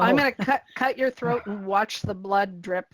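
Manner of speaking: a light imitation of a flat threat; deadpan. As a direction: read it out with no feeling. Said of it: "a deadpan voice".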